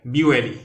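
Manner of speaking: be ready said loud and clear, stress on be; model pronunciation. Shown as a demonstration. Teacher modelling be ready to a class. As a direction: call out be ready for the class to copy.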